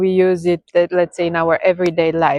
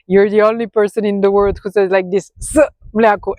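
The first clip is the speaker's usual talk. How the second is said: mocking husband. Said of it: "her husband was making fun of her".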